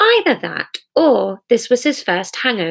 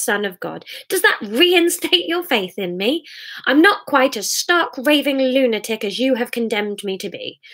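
exasperated, higher-pitched outburst; heated argument; 5 semitones higher than usual. Acted. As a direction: argue back, pitch jumping up on each new challenge.

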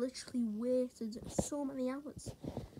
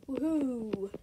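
a bright, excited woohoo; happy cheer; 3 dB louder than usual. Real, not acted. Showing viewers the room, an excited little cheer. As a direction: cheer at the view.

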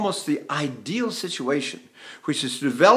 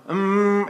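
pressed-lip "mm", pitched higher; lip clamp; 4 semitones higher than usual. Shown as a demonstration. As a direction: press the lips into a held "mm". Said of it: "It's not an M".

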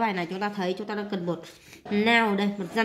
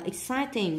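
slow "exciting" stressed on "ci"; second-syllable stress; 3 semitones higher, slower than usual. Shown as a demonstration. Teacher marking word stress, "exciting" stressed on the second syllable. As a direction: lean on CI in "exciting". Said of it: "nhấn âm hai".

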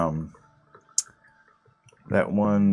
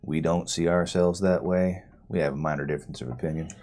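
lightly voiced rural elder, wry; a folksy NPC, dryly understated; drawling swamp folk NPC.

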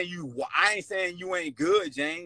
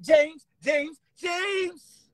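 retold shouting; 11 semitones higher, much slower than usual. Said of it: "I said".

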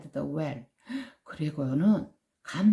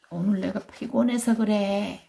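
tiger making excuses; 3 semitones higher than usual. Acted. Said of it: "변명을 한 거야".

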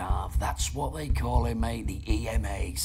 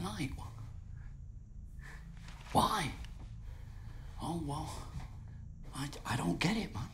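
hushed, halting disbelief; quiet, wounded questioning; stunned hurt; 13 dB quieter than usual. Acted. Stunned guest after live accusation.

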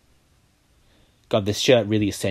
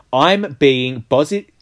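tongue-tied giggle; 7 semitones higher, 8 dB louder than usual. Real, not acted. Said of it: "Why can't I say this?".

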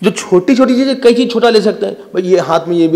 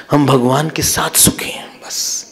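lower, hushed, fading to a whisper; quiet contentment; 4 semitones lower, 5 dB quieter than usual. Acted. Preacher voicing happiness with God, quietly content. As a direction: say it softly, letting it sink away. Gives the corrected, humble thought.

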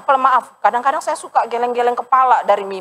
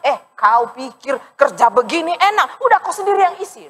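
irritated retort; 5 semitones higher than usual. Retold or imitated. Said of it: "tambah naik tensinya jemaat itu".

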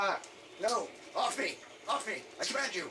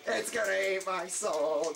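panicked shout; slower than usual. Real, not acted. Monster grabbing him.

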